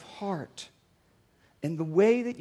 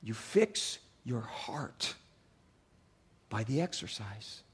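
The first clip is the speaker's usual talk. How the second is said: slow, low whispered punchline; 9 semitones lower, 7 dB quieter, slower than usual. Real, not acted. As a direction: drop to a hushed whisper. Whispered punchline after shouting.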